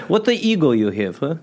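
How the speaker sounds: put-on broken English in a light Russian accent; mock Russian accent. Russian God mocks Jeffrey's American picture of him, light Russian accent. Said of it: "I'm Russian".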